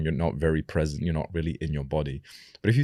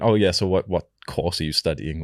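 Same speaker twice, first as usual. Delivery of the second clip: higher-pitched voice. Retold or imitated. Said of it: "I'd hear him speak with his higher pitched voice".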